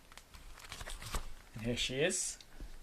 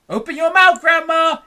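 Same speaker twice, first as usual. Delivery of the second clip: higher, louder call; urgent cry; 12 semitones higher, 7 dB louder than usual. A narrator's reading. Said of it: "he cried".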